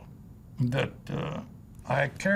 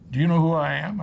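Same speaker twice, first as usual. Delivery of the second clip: louder, higher indignant boss; retold angry demand; 3 semitones higher, 6 dB louder, faster than usual. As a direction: puff up like an offended tycoon, half-acted. Studio boss confronting young actor.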